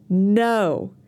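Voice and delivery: a short, steady "No."; firm no. Shown as a demonstration. Teacher repeats the no with the class. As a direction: say "No." and mean it. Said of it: "We're gonna say it again".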